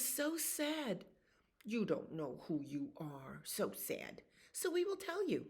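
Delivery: whispered, pitying frogs; whispered frog teasing. Acted. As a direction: tease him in a hush.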